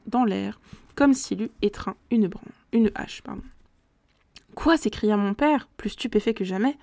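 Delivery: steady, measured reading of a gothic novel; story narration. A narrator's reading. Reader narrating a gothic tale to listeners, measured narration. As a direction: read it like an audiobook narrator.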